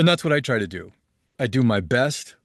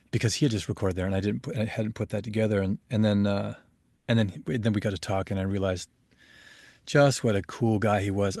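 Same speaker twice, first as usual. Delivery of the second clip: usual speaking voice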